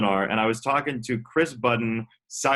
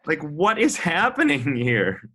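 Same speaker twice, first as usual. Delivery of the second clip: baffled; 5 semitones higher, slower than usual. Retold or imitated. Acts out own bafflement.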